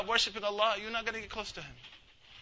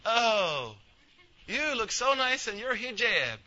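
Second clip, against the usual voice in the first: a light Oklahoma twang, slightly higher; Oklahoma accent; 5 semitones higher, slower than usual. Retold or imitated. People in Oklahoma complimenting the sister's hijab, Oklahoma accent. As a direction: gush like a neighbour in Oklahoma. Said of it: "In Oklahoma, that's how they say it".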